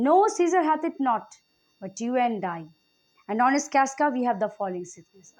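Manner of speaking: slow, measured reading of the play text; Shakespeare reading. Acted. Teacher reading Casca's speech to the class, slow and measured. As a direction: read the old verse deliberately, word by word. Teacher reads Cassius's line.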